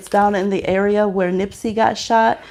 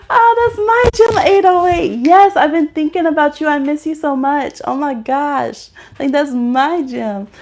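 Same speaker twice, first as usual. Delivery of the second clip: excited squeal; 7 semitones higher, 5 dB louder than usual. Real, not acted. Greeting a viewer with excitement.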